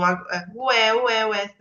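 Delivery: imitating an ambulance siren, ué ué; mock siren wail "ué, ué", lightly voiced; sirene de ambulância. Shown as a demonstration. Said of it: "O som é, por exemplo, da ambulância". (imitando de leve a sirene "ué, ué")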